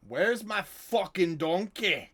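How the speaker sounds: high, slow, drawn-out yell; mock angry shout. Game master mimicking Cal hunting for the donkey, loud mock yell. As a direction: holler it out, stretching every word.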